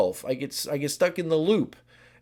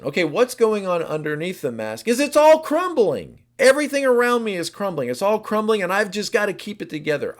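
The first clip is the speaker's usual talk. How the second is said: anxious pressure; 3 semitones higher, 4 dB louder than usual. Acted. Six's crumbling inner pressure.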